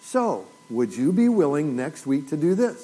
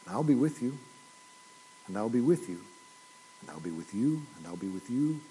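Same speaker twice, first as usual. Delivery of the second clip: each repeat softer and lower, dying away; fading repetition; 4 semitones lower, 7 dB quieter than usual. Acted. Pastor quoting Christ's promise, fading to a hush. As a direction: let the promise fade out.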